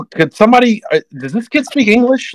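high, put-on exasperated voice; mocking exasperated boss. Team boss to the crew about the rookie, high mocking exasperation. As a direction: play the fed-up boss asking the room for help.

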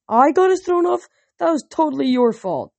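mock indignant girl arguing with Percy; indignant Annabeth. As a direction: playfully protest the blame. Annabeth protests the teasing.

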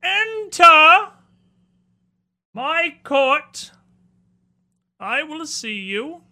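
high, loud, regal monster lord; spider prince voice. Acted. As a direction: loom over them as royalty.

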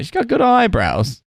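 high, slow imitation of a sitcom character; retold sitcom line. Praising a date in a retold scene, high mock voice. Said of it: "And then he's like".

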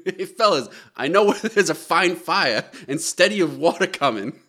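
lightly acted kid with a Boston accent; excited Boston child. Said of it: "who has a strong Boston accent".

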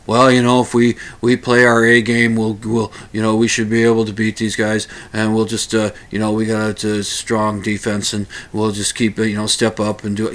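lightly voiced athlete reciting stock lines; a hint of a bored ballplayer droning cliches; mild, low mock post-game interview. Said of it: "it's like cliche stuff".

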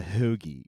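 "hoagie" in a hometown accent, playing up the O; local hoagie pronunciation. Shown as a demonstration. Local correcting the visitor, regional pronunciation of "hoagie". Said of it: "if you're from our area".

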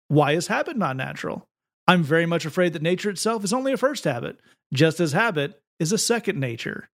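lightly put-on preacher cadence; a philosophy text preached with mild megachurch flair; megachurch delivery. Shown as a demonstration. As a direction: punch the opening word, then pause like a preacher. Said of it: "megachurch, uh, delivery".

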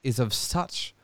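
lightly hammed-up grand self-importance; a hint of lofty arrogance, dragged out; mock pompous inner voice. Friend mocking his mate's grand copyright notice, pompous. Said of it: "were you thinking".

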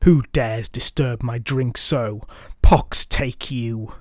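booming dragon voice. Acted. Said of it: "it exclaimed in a booming, awful voice".

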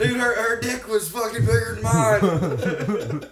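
slow laughing delivery; laughing through the words. Acted. Laughing through acted quote.

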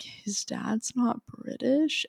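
slow, soft, drawn-out disbelief; surprised question. Retold or imitated. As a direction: ask it slowly in quiet shock. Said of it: "I was like".

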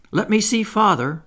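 put-on high, loud little-boy plea; eager begging. A narrator's reading. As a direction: beg eagerly for a look. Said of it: "Michael begged eagerly".

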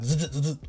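quick stuttering electric zaps; imitated buzz. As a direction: buzz in short bursts like a shock. Imitating a shock on the tongue.

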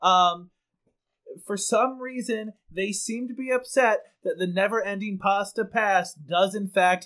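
grave reporter describing chaos; deadpan live report from the scene; field reporter voice. Acted. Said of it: "full news anchor voice".

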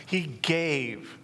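He gave, with the word gave leaned on; preacher stressing gave; emphasis on gave. Shown as a demonstration. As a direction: press hard on gave in He gave. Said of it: "emphasis on the word give".

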